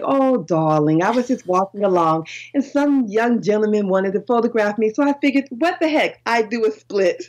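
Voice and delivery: imitating an older Englishwoman's accent; English accent. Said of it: "she had an English accent".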